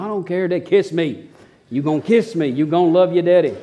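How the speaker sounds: bossy dad in fun; playful insistence. Retold or imitated. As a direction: tease sleepy daughters for a kiss. Dad demanding kisses, mock bossy.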